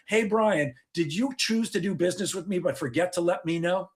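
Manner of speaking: sarcastic meaning. Retold or imitated. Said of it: "they really mean".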